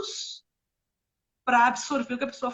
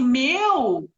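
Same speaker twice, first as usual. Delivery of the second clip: put-on loud, casual teen-style exclamation; teenage slang talk; 6 dB louder than usual. Mother copying how her teenage son talks, lightly imitated teen slang. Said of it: "eu tô falando assim porque meu filho fala assim".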